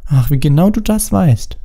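high, cutting sarcasm; dangerously indignant. A narrator's reading. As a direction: challenge him crossly. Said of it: "ihre Augen blitzten gefährlich".

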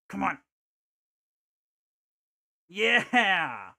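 loud, drawn-out triumphant cheer; excited cheer. Real, not acted. Player cheering mid-fight, excited cheer.

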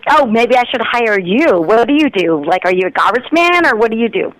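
ordinary delivery

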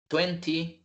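TWENTY said with the second t sounded: twen-tee; twenty with both t's. Shown as a demonstration. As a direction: pronounce the t after the n in "twenty". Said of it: "Algunos dicen twenty, otros".

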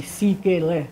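Sikele with English e, not ah; Sikele, the English-style reading; English vowels. Shown as a demonstration. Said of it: "'cause the A is A, right? Not a "ah".

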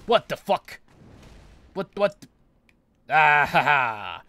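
loud high startled cry then a laugh; shocked outburst breaking into laughter; surprised then laughing. Real, not acted. Gamer seeing the enemy leap off, loud surprise then laugh.

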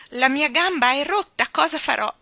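high, loud wailing; moaning. A narrator's reading. The maid's moans heard through the din, moaning. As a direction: keep up a loud lament. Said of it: "i gemiti di Ellen".

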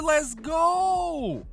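high, loud hype yell; excited shout. Real, not acted. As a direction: scream it with joy. Hype reaction to anime trailer.

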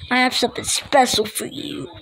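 sinister villain whisper; evil voice. Pretend. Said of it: "why do you say it in an evil voice".

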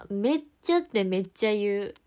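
「めっちゃ」を弾むように大きめに言う; 口癖を楽しげに強調して; lively catchphrase. Shown as a demonstration. (自分の口癖を面白がって明るく強調)

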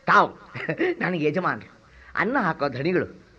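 butter up the boss with a giggle; laughing flattery. Acted. Sly flattery of the master. (ನಗುತ್ತಾ ಹೊಗಳಿಕೆ)

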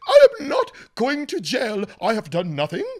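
hammed-up tearful outburst; mock sniveling. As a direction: imitate a scared man sobbing his innocence. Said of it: "He was sniveling".

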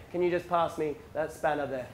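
low, soft, unbothered request; deadpan dad under a tractor; casual understatement. Retold or imitated. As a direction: ask it quietly as if nothing happened. Calm dad after screaming for help.

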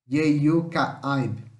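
Yeyucaaib with the vowels glided together; demo pronunciation. Shown as a demonstration. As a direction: model Yeyucaaib for the class. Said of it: "Ó, tudo junto". (pronúncia de Yeyucaaib, vogais juntas)

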